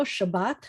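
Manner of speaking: "Shabbat" with the accent on the second syllable; stress on second syllable. Shown as a demonstration. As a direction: land on the end of "Shabbat". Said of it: "accents on the second syllable".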